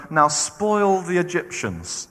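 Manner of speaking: slow command. Retold or imitated. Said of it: "God said to them".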